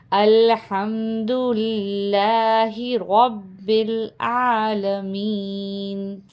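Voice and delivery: slow, connected model reading with long vowels; joined-up slow reading. Shown as a demonstration. Teacher joining all four words for students, slowly and connectedly. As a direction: link الحمد للہ رب العالمین in one slow line. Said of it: "ہم چاروں کو ملا کے پڑھیں گے".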